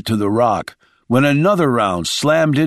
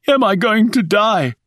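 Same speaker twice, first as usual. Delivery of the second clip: high, frightened gasped question; 9 semitones higher than usual. A narrator's reading. Wounded Rice asking Shaw if he will die, gasping. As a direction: ask it in pain, just coming to. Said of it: "gasped Rice as he came to".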